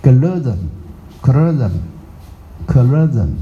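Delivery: colorism repeated three times, very slow; American pronunciation. Shown as a demonstration. Teacher drilling the American word for students, very slow. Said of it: "他们念colorism".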